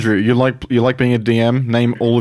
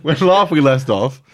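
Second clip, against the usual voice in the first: laughing imitation; 6 semitones higher, slower than usual. Mimicking the opening line.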